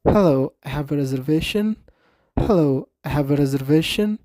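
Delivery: slow, careful model with a rising end; slow repeat. Shown as a demonstration. Teacher repeating the guest's line for learners, slow and clear. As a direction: draw the sentence out for students. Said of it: "እንታይ ትብሎ ዘላ?".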